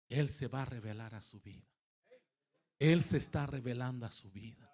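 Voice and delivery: preaching. Real, not acted.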